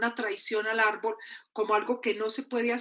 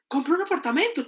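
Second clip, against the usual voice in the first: higher, insistent order from a checklist; insistent demand; 5 semitones higher, faster than usual. Acted. Everyone expects it of us, insistent high demand. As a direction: press the next demand on them. Expectation, then compliance ticked off.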